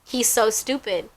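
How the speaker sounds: soft teasing under the breath; quietly mock him between laughs; laughing quote. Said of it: "We're like".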